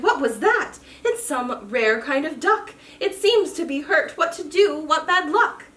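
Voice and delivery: cried out. Acted. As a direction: call out with eager worry. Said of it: "and he cried".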